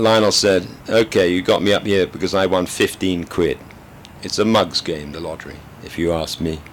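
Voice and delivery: steady British storyteller reading aloud; story narration. A narrator's reading. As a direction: read the novel to the audience with dry understatement. Reads a novel aloud.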